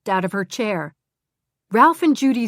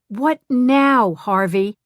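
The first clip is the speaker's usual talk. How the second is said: irritated; 3 semitones higher, 5 dB louder, slower than usual. Acted. Glenda annoyed answering ex's call.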